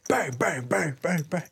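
quick repeated "bang" for window punches; spoken pounding noise; imitated banging. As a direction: mimic fist blows on a car window. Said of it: "starts punching my window".

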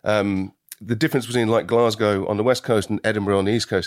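Scots accent from the back of the throat; Glasgow-leaning Scottish accent. Shown as a demonstration. Actor explaining where Scots sits, Scottish accent. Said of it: "Scotch is more from the back".

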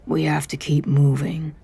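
gentle, slow reassurance; soft and understanding. Acted. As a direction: coax him along tenderly. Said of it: "a voice so soft and understanding".

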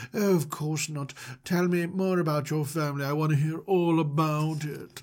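lightly put-on host voice; a hint of a strange character voice; Mister Manager. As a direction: play the odd host, mildly affected. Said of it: "putting on a voice or something".

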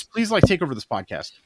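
weak, fading, worn-out voice; dying voice. Pretend. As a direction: beg to hand off with a spent, dying voice. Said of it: "and with a dying voice".

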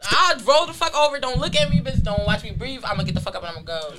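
annoyed bedmate. Pretend. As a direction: play the irritated bed partner.

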